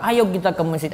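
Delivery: low, soft, inviting urging; gentle motivating. Shown as a demonstration. Preacher motivating people to come to mosque, low gentle invitation. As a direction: invite them along calmly. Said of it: "untuk motivasi orang".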